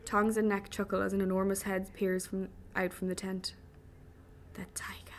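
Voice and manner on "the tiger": hushed, barely voiced whisper; stunned, very soft; awed whisper. A narrator's reading. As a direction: whisper it at the sight of the beast. Enormous head emerges from tent.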